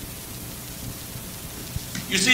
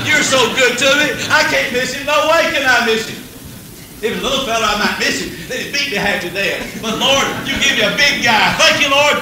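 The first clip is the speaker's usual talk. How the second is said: excited; 4 semitones higher, 3 dB louder than usual. Retold or imitated. David gleefully thanking God.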